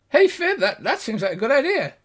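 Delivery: put-on high, bright-eyed gnome girl; excited gnome girl. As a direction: pitch it up high and eager. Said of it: "The girl says".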